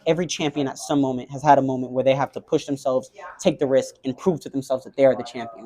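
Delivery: low, quiet fatherly counsel; retold pep talk. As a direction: coach him quietly, like a dad. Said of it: "the greatest pep talk of all time".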